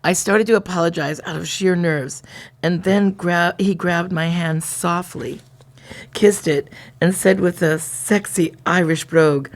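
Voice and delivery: lightly dramatized diary narration; diary reading. A narrator's reading. Reading the diary to a co-host, lightly dramatized storytelling. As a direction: read it out like a steamy romance story.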